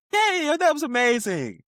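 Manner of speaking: slow, high fake-sweet compliment; high, slow sarcastic praise; mock polite praise. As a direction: drag it out sweetly while you seethe. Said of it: "I'm a".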